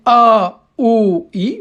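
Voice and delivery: A, O and I each held long and set apart; long vowels shown. Shown as a demonstration. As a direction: hold each long vowel as a model for the class. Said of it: "Vous avez trois voyelles longues". (voyelles longues A, O, I, bien tenues)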